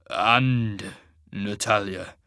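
slow, choked-back words; strangled, reluctant question. Acted. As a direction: force the name out through a tight throat. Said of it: "in a strangled voice".

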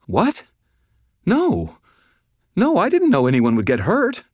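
very high, frightened protest; panicked denial. A narrator's reading. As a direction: protest innocence in a squeaky panic. Terrified woman protests her innocence.

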